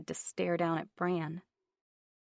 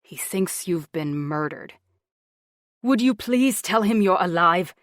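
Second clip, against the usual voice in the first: out of breath; 10 dB louder than usual. Acted. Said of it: "out of breath".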